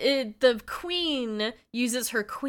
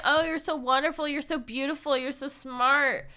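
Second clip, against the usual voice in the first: gushing flattery; 6 semitones higher than usual. Pretend. Mocking flattery quote.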